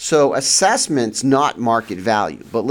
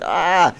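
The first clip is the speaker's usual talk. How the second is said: mock yell; 8 semitones higher than usual. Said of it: "you yell at them and you're like".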